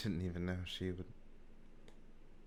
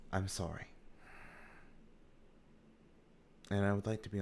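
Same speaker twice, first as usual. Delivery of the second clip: lightly voiced mentor, halting and softer; sincere apologizing mentor; 6 dB quieter, faster than usual. Woman confessing privately to her slayer, understated sincere apology. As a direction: apologize gently, with careful pauses.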